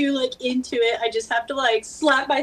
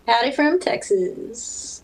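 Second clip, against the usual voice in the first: slow Texas drawl greeting; a slow, friendly Texas accent hello; 4 semitones higher, much slower than usual. Pretend. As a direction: stretch it out like a Texan. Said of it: "You hear that accent, Texas?".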